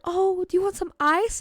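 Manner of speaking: a hint of cooing concern; sweet lady teacher. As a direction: lightly imitate a kindly teacher. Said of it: "always super sweet to me".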